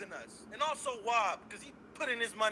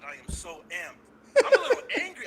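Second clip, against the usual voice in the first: giddy laugh; 7 semitones higher, 9 dB louder than usual. Real, not acted. Over-excited giddy caller.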